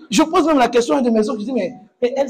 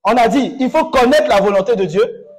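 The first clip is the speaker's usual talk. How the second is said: fiery preaching; 3 semitones higher than usual. Acted. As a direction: preach it hard to the congregation. Pastor preaching to congregation.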